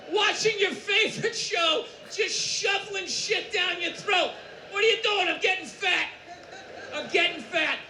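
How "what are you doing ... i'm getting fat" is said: smug lazy eater. Acted. Lazy eater answering cheerfully.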